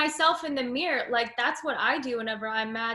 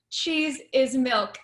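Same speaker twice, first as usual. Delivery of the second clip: slow, deadpan radio announcer; 5 dB louder, much slower than usual. Retold or imitated. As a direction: spell it out like a radio ad. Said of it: "it's like the radio voice".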